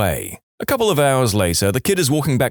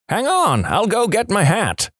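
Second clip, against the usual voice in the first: eager; 10 semitones higher than usual. Acted. Old man's eager reply.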